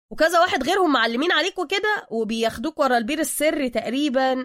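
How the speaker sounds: loud long "oh", then eager rambling; dim-witted realization. A narrator's reading. Suka garbling the Batman story, cluelessly eager. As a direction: blurt it like a fool who has just caught on. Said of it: "سوكا مستدركا بغباء".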